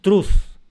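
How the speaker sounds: "truz" hit high and loud; stressed syllable truz. Shown as a demonstration. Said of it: "cargo esa fuerza en la sílaba".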